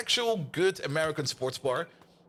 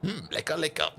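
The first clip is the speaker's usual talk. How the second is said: hammed-up German stereotype voice; mocking German accent for the chat; slower than usual. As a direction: play a jolly cartoon German, ja and Bier. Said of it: "that's how actual German sounds".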